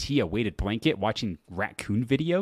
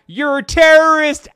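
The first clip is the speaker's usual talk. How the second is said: much higher, loud accusing yell; mock accusing shout; 13 semitones higher, 11 dB louder than usual. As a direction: hurl the accusation. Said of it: "then they commented back".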